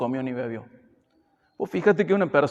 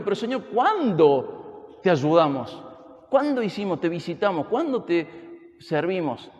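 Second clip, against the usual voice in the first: puzzled people asking the Lord; 3 semitones higher, slower than usual. Retold or imitated. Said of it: "La gente pregunta".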